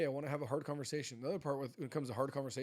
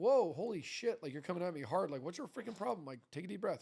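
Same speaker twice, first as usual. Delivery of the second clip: defensive, taken aback, pushing back; 4 semitones higher than usual. Retelling own reaction to a blindsiding talk with a spouse: imitating getting defensive. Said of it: "I get defensive. I'm like".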